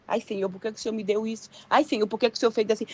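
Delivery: quick, grumbling whine to God; murmuring complaint. Acted. Believer murmuring to God about what they received, grumbling. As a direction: grumble it out in a rush. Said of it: "começa a murmurar".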